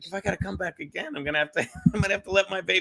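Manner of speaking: secretive, hushed half-whisper under the breath. Recounting what he said so the car wouldn't hear, retelling a half-whisper. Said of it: "I'm whispering like the car can hear me".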